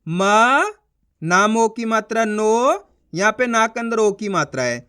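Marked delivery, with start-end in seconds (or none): 0.1-2.9 म held long, then नो drawn out and rising; spelling out syllables. Shown as a demonstration. Teacher spelling a word for learners, sounding out. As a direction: spell it slowly, stretching म and नो. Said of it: "अब चलिए देखिए".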